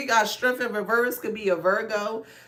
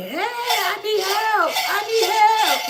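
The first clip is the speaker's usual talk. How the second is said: put-on prisoner's cry, pitched higher and louder; 11 semitones higher, 5 dB louder than usual. Acting out prisoners clanging a cup on jail bars: jailed prisoner calling for help. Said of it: "the jail bars and they're taking the cup and they".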